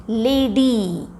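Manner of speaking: लेडी drawn out, ending on a long "ee"; long final ई. Shown as a demonstration. Teacher showing that वाई sounds like ई, लेडी with a long drawn-out ending. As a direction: stretch लेडी slowly so the final ई rings. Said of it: "उसका sound आ रहा है ई".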